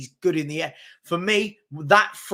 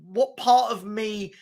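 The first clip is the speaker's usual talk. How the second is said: indignant disbelief; 2 semitones higher, slower than usual. Retold or imitated. Man questions the kid who called him blood, indignant. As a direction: challenge the slang word in mock outrage.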